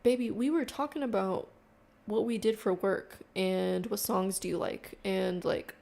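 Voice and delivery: loud, exasperated comeback; loud retort. Real, not acted. Vlogger loudly answering the man who got angry, exasperated. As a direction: shout it back at him, fed up. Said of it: "retort to the man".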